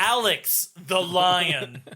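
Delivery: slow, drawn-out cartoon lion voice, lightly done; Alex the Lion. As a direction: stretch the name out like a showy cartoon lion. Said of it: "I can only do a very good Alex the Lion".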